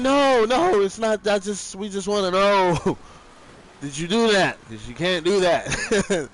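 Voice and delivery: calm him down, then ask gently; reassuring woman. Retold or imitated. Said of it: "she's like".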